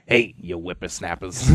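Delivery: slow, laughing mock old gnome; imitating a friend's old gnome voice while laughing. At the game table, mocking a friend's old gnome character. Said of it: "he talks like a gnome".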